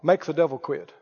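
a hint of a whining prayer; mock pleading prayer. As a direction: mimic a helpless pleading Christian. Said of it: "Wonder how many Christians are praying".

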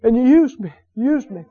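reliving a grateful, tender cry to God; overcome with gratitude. Retold or imitated. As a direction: marvel humbly to God. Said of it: "it got so happy".

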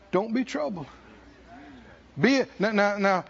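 ordinary talk, nothing marked

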